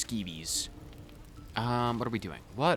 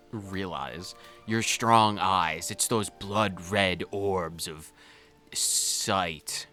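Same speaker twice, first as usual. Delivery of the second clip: romantic reading; 2 semitones lower, slower than usual. Acted. Reads romantic descriptions slowly.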